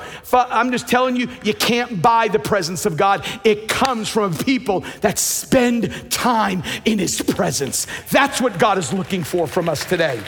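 forceful preaching. Real, not acted. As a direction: drive the point home to the congregation.

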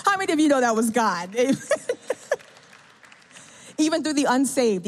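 high burst of laughter; laughing at the punchline. Real, not acted. Laughing at the outcome.

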